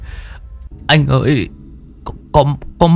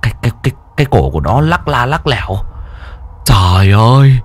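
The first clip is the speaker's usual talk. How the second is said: higher, shaky frightened account; trembling retelling; 7 semitones higher than usual. Acted. Henchman to boss describing the ghost, trembling. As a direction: relive the horror as you tell it. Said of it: "run run kể lại".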